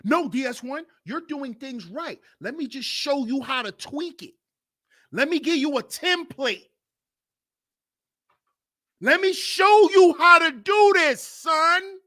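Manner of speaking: high, friendly-sounding tempter; lightly voiced fake mentor devil; smooth devil. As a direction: flatter him like a false mentor. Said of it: "It's the devil".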